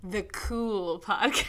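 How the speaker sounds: put-on slow, laughing cool-girl drawl. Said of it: "changing our voices to sound cool".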